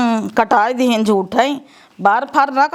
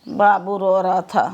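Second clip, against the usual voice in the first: low, slow mimicry of the daughter; mocking echo; 6 semitones lower than usual. Mother mockingly echoes daughter's words.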